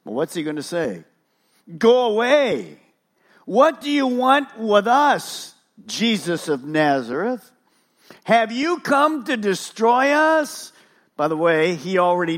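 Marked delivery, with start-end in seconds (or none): 1.8-10.7 high, drawn-out demon's cry. Acted. Demon confronting Jesus of Nazareth, crying out. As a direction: cry out slowly, pitched up in challenge.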